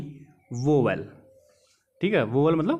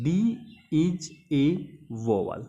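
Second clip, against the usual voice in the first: slow keyword; much slower than usual. Shown as a demonstration. Teacher to students, giving the mnemonic keyword, very slow and deliberate. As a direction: drag out इज ए वोवेल word by word, very slow. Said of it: "तो keyword क्या लेना है".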